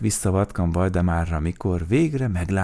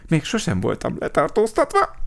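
high, louder, thrilled voice; gleeful, raised-pitch excitement; delighted; 11 semitones higher, 5 dB louder than usual. A narrator's reading. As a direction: marvel happily at a first-time treat. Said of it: "örült Vacska Mati".

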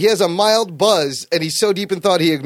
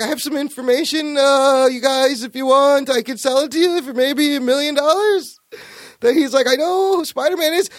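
high, nervous weaselly pitch; a slimy guy trying to sell a secret; lightly voiced sleazeball; sleazy photographer; 5 semitones higher than usual.

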